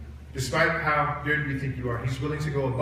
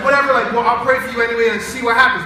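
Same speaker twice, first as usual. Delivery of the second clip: mock indifference; 5 semitones higher, 7 dB louder, faster than usual. Retells his own unbothered prayer offer.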